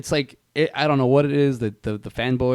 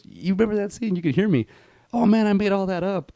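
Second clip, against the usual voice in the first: higher-pitched impression of a storyteller; lightly put-on, pitched-up excited voice; Mick Foley; 10 semitones higher than usual. Wrestler on set tells how he fooled them, impression. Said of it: "that's my Sam Elliott and Mick Foley story".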